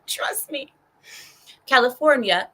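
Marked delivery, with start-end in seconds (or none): 0.1-0.7 whispered aside with a laugh. Real, not acted. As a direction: confide it under your breath. Aside about California being broke.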